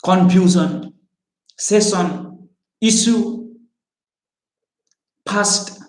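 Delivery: Odia mother-tongue accent, f as p and sh as s; isolated words in heavy Odia English; thick Odia accent. Shown as a demonstration. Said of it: "I had a very thick accent".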